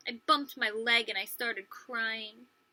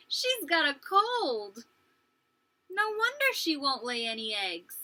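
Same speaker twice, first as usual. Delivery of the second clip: pitying; 3 semitones higher than usual. Acted. Amy pities the sick hen.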